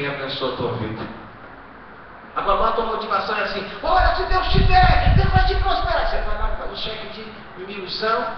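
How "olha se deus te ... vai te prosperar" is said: mock pious voice. Mocking greedy believer's prayer.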